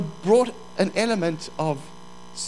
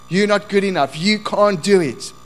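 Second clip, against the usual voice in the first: strong, insistent accusation; loud inner voice; 2 semitones higher, 5 dB louder than usual. Acted. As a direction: put them down forcefully. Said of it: "is such a loud voice".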